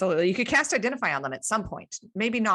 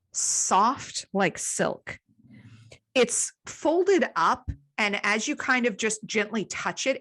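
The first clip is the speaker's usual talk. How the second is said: measured, deliberate scene setting; game master narration; 2 semitones higher than usual. Acted. Game master describes found cloth.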